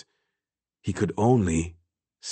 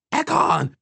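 very high, distant call; high-pitched faraway cry; calling from far away. A narrator's reading. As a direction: call the name across a distance. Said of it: "calling his name from far away".

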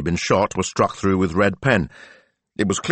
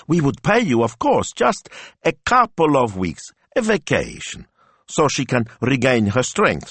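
high, louder, eager pleading; pleading Signor Rossi; 9 semitones higher, 3 dB louder than usual. A narrator's reading. Signor Rossi begging the hotel to board his dog, high and eager. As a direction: rush to reassure them she'll be no trouble.

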